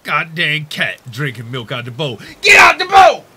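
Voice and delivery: put-on grumpy old man, grumbling up to a shout; old man mumbling. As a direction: rant like a cranky old man at the cat. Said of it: "You're like an old man mumbling".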